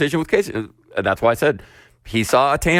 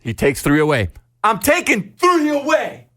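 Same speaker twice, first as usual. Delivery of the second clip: imitating a dad forcing patience; 7 semitones higher than usual. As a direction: lay it out step by step for a child. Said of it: "He goes and grabs five apples".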